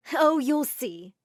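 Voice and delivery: drawn-out, slow teasing excitement; excited. Acted. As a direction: savor the surprise, slowly. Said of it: "she just said excitedly".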